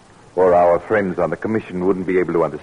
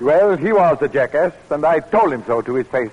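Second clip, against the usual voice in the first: angry; 5 semitones higher than usual. Acted. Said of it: "I've never seen you angry like this".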